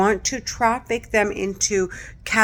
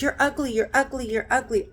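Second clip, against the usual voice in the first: 1 jeering; 6 semitones higher, faster than usual. Retold or imitated.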